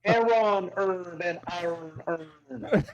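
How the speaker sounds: slow, laughing Scottish tongue twister; laughing through it. Acted. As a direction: laugh while drawing the line out. Repeating the accent line laughing.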